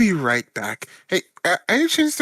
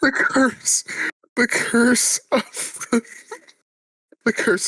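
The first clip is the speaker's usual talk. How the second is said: spooky narrator voice; 10 semitones higher than usual. Acted. Dramatic spooky pronouncement.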